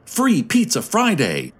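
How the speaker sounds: high, lively mock shout; young voice shouting. A narrator's reading. Youngster suggesting how to spend funds, high moderate shout. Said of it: "a young voice shouted".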